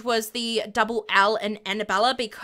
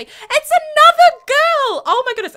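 thrilled reveal; 9 dB louder than usual. Real, not acted. Announcing to viewers the new baby is a girl, thrilled. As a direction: draw it out with real glee.

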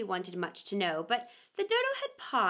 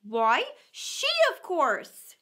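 Dodo voice; 5 semitones higher, 5 dB louder, much slower than usual. Acted. Dodo answers.

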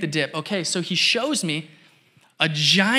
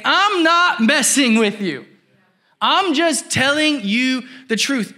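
slower, earnest voice of Jesus; paraphrasing Jesus; 5 semitones higher than usual. Retold or imitated. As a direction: lean in and speak plainly, sincere. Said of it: "He's saying".

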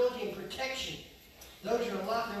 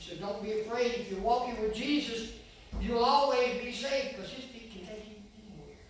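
rising reassurance; 2 semitones higher, 6 dB louder than usual. Real, not acted. Preacher assuring the congregation they're safe with Jesus, rising to a shout. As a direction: lift the promise up to the rafters.

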